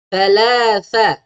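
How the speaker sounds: "Thalatha" slowly with th sounds; careful pronunciation. Shown as a demonstration. Teacher modelling the tha letter for parents. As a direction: lisp the th in "Thalatha". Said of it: "Huruf tha".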